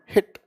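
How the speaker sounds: हिट clipped, with a short sharp i in the middle; sound demo. Shown as a demonstration. Teacher repeats हिट firmly so students hear the short i. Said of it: "सिर्फ ई की sound".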